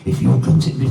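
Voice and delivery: loud harsh rasp, the take he says is wrong; wrong voice for her. Retold or imitated. Wife threatening the heckler, first take, a loud harsh rasp. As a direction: blast "If you continue" as a loud rasp. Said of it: "now, it shouldn't sound like this".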